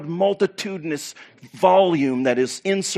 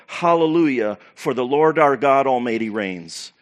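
raised voice, acted shout of praise; crying out. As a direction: cry it out as a multitude. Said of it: "crying out".

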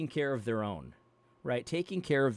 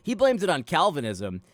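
put-on Ruslan KD accent retry; 3 semitones higher, 5 dB louder than usual. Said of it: "I haven't done it in such a long time".

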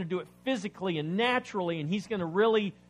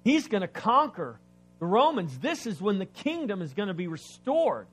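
excited disciples; 2 semitones higher, 7 dB louder than usual. Retold or imitated. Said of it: "They're thinking".

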